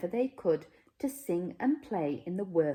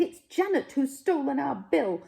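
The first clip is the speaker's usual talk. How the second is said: louder and higher, indignant retort; accusing back; 8 semitones higher, 5 dB louder than usual. Acted. Smoos blaming the Smeds for taking Bill, loud retort. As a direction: throw the blame straight back.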